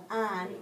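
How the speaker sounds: "on" with the silent H of honest; isolated first sound. Shown as a demonstration. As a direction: stress "on", starting straight on the vowel. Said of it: "of honest".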